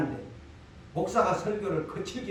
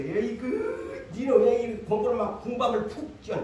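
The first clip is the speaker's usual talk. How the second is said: lightly voiced exasperated parent nagging; hot-tempered parent. A pastor mimics a parent scolding a lazy child, mildly exasperated. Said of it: "열정적인 부모는 막 혈기가 막 이렇게".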